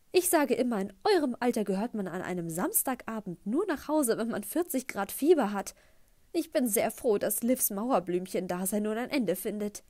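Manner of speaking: mother beaming at her future stepson; gushing mother. Acted. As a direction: gush it at the boy, all sweetness. Mom lectures at the table.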